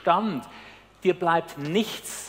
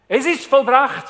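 high, loud call of completion; triumphant cry; 7 semitones higher, 9 dB louder than usual. Retold or imitated. Jesus crying his final words from the cross, high triumphant call. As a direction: proclaim it like a victory shout. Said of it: "Das ruft er".

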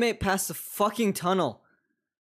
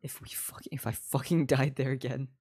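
lower, half-whispered grumble; low frustrated mutter; 5 semitones lower, 5 dB quieter than usual. Real, not acted. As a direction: grumble it under your breath. Muttered frustration, repeated louder after.

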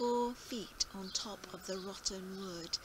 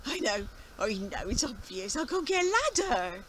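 put-on excited old farmer; 8 dB louder than usual. Farmer's new plan.

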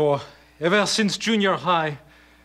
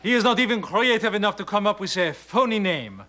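put-on phony French accent. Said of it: "a phony accent like this".

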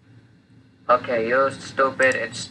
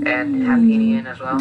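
high, loud cartoon voice; squeaky character asking; 13 semitones higher, 6 dB louder than usual.

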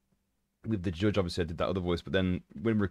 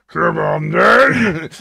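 slow, drawn-out roar, much higher and louder; battle cry; 7 semitones higher, 13 dB louder, much slower than usual. Retold or imitated. Game character charging into a crowd, roaring. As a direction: bellow it as you charge a crowd. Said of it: "you do when you charge into a crowd".

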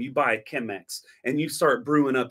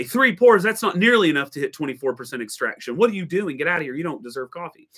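snobby scoff; 3 semitones higher than usual. Retold or imitated. Extraction snob scolding a forum beginner, hammed-up disdain. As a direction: scoff at the newbie's recipe.

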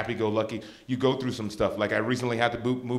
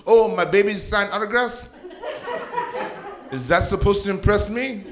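mock-impressed mom, pitched up; talking smack; 7 semitones higher than usual. Mom unimpressed by her son's autographs, high mocking voice. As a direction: needle him with raised-voice sarcasm. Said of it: "she talks smack to me".

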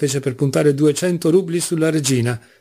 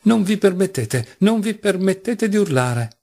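shouted rebuke; 7 semitones higher than usual. A narrator's reading. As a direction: forbid it with contained outrage. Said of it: "gridò Grushenka". (rimprovero indignato, voce acuta)

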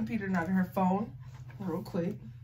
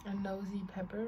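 whispering; 7 dB quieter than usual. Real, not acted. Repeats riddle under breath.

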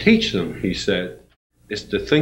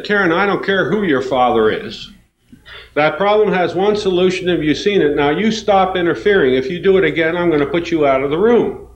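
stern teacher; 7 semitones higher than usual. Retold or imitated. Teacher warning Karen in front of the class, sternly. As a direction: play the strict teacher laying down the law.

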